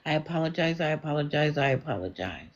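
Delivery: soft, low run of apologies; repeated apology. Real, not acted. Host apologizing to Nancy for a misreading, contrite.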